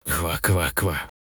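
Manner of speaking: slow soft laughing croak; frog croak. Acted. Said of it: "засмеялась лягушка".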